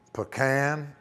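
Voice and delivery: "pecan" as puh-KAN; variant pronunciation. Shown as a demonstration. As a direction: say "pecan" with an unstressed puh, then a stressed KAN like can. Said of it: "some people say".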